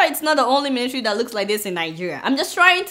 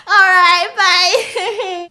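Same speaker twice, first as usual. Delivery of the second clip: high, bright put-on girly voice with a laugh; high-pitched giggly girl voice; mock sweet campus girl; 4 semitones higher, 6 dB louder, much slower than usual. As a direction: play the fake-friendly floater saying goodbye. Same girl impression continued.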